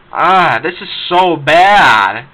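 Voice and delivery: slow, drawn-out disgusted groan; exasperated groan. Real, not acted. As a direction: drag the words out in disgust. Ranting about the 4Kids dub.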